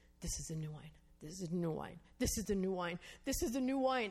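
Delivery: acted whisper. Retelling a man who kept repeating the same words, imitating him whispering. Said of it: "he's whispering".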